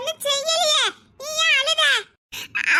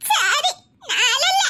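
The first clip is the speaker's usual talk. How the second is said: slow, sobbing words; still crying; much slower than usual. Acted. Crying child reassured by friend, still sobbing. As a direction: promise to stop crying through tears. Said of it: "நீ அழாத".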